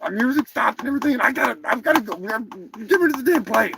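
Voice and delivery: quick, grumbling turkey rant; mildly miffed turkey; pissed-off turkey character. Acted. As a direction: complain fast as an irritated cartoon bird. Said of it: "I'm fucking pissed off".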